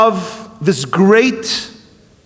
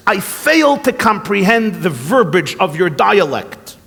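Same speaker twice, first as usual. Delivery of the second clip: Oxford English. Retold or imitated. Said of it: "in a perfect Oxford English".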